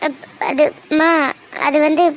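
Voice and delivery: halting, broken syllables through tears; can't get the words out; choked stammer. Acted. Daughter too upset to speak.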